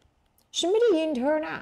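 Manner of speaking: mock complaint. Teacher acts out a line.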